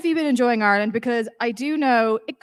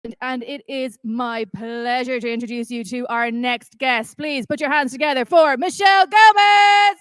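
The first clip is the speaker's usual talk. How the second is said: stage announcer introduction. Real, not acted. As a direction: build the introduction into a big name announcement. Introduces the guest to audience.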